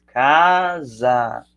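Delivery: "casa" split into two drawn-out syllables, ca-sa. Shown as a demonstration. Teacher showing the two syllables in "casa", syllable by syllable. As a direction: stretch each syllable of "casa" apart. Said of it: "tem duas sílabas".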